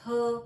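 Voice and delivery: her said as a lone, punched 'huh'; isolated h sound. Shown as a demonstration. Teacher giving learners the letter's sound, isolated h. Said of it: "और ह इसका sound है".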